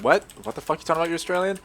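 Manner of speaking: high-pitched mock disbelief; mock incredulous. Mimics everyone's incredulous reaction.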